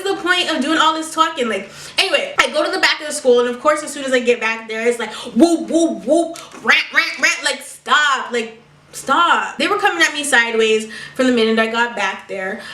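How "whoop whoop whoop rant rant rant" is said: mock whooping and yapping; mocking burst of repeated yaps; mimicked hype. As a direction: imitate noisy chatter in quick repeated bursts. Mimics the sister's noisy hype.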